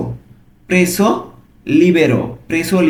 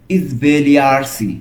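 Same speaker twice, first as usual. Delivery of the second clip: slow model pronunciation; much slower than usual. Shown as a demonstration. Teacher models Italian word slowly.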